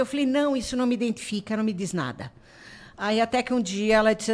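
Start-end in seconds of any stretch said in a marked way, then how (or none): 0.3-2.3 brisk refusal. Retold or imitated. Quotes own brisk refusal.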